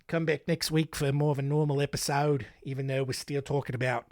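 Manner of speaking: hammed-up fake Australian accent, slipping now and then; put-on Aussie twang for a true-crime recap; bad Australian accent. Podcast host recapping a killer's fate in bad Australian accent. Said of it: "it's a bad Australian accent".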